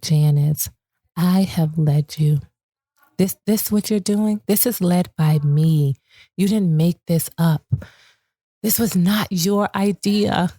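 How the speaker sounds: a calm reminder with long pauses; gentle reassurance. Retold or imitated. God gently reminding Janice it was his idea. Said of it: "so gently and so graciously reminded me".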